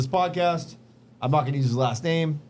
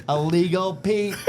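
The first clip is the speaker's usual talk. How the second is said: laughing; 2 semitones higher, slower than usual. Real, not acted. Punchline through laughter.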